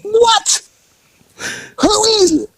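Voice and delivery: high, puzzled call through the door; confused lookout. Retold or imitated. The lookout, baffled, calls through the door again. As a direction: sound baffled by the answer.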